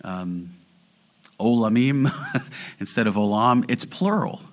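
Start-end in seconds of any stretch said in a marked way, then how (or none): 1.4-2.1 careful attempt at the Hebrew olamim; Hebrew word said carefully. Shown as a demonstration. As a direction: sound out olamim syllable by syllable. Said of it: "I don't know that I can say it".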